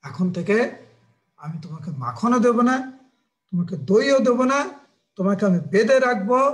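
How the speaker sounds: stern scolding, each threat pushed out; firm, emphatic maternal warning; stern mother. Acted. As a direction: lay down punishments to a naughty child. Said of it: "মা যশোদার এই কড়া মনোভাব".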